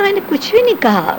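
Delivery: high-pitched protest with the weight on بھی, imitating the cameraman; mock-defensive cameraman insisting he said nothing; insistent denial.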